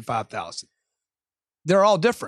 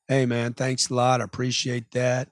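lower, calm polite brush-off; rational customer; 4 semitones lower than usual. Acted. Unemotional customer thanking the salesman, calm and rational. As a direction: play it cool and unemotional. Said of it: "The guy that stays rational".

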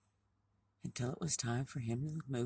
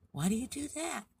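high, louder character question; puzzled little frog; 12 semitones higher, 5 dB louder than usual. Acted. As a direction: ask it high, like a baffled storybook frog.

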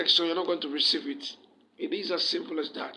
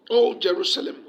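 proclaiming call; 2 semitones higher, 8 dB louder than usual. Acted. Proclaiming scripture from the pulpit.

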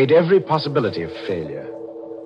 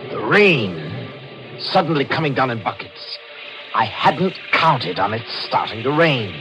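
higher, louder, urgent narration; alarmed; 5 semitones higher, 3 dB louder than usual. Acted. Killer realising rain threatens his alibi, alarmed and higher-pitched. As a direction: voice climbing as the panic builds.

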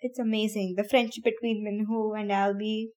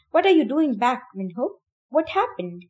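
upset; 3 semitones higher, 4 dB louder than usual. Acted. Albie confronting Minho back early, upset demand. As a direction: fire it at him, worried and cross. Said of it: "clearly upset".

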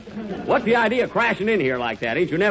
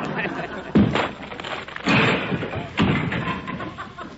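breathy laugh; 12 semitones higher than usual. Acted. Laughs at joke.

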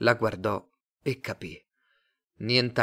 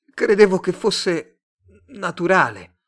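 high, loud, incredulous; dismayed protest; 8 semitones higher, 9 dB louder than usual. A narrator's reading. Simon learning his love was manufactured, dismayed. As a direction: protest with the voice pitched up.

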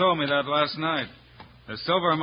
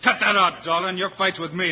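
loud, higher demand to stop; angry command; 6 semitones higher, 5 dB louder than usual. Acted. Hero yells at Dalton to leave Jingles alone, angry shout. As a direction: stand up for your partner, hard and loud. Hero defends his partner.

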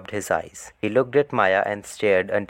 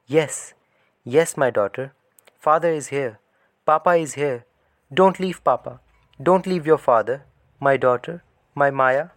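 higher, louder tearful plea; tearful pleading father; 6 semitones higher, 3 dB louder than usual. Acted. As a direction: beg his daughter through tears. Father weeping over dying daughter.

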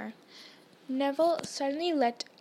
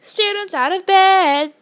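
high, slow, very loud bellow; drawn-out alarm cry; 8 semitones higher, 13 dB louder, slower than usual. A narrator's reading. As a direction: holler it to rouse a castle. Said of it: "Peeves bellowed".

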